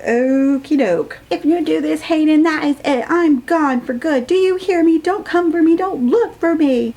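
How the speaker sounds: dramatic ultimatum voice. Retold or imitated. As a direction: deliver it like a melodramatic breakup ultimatum.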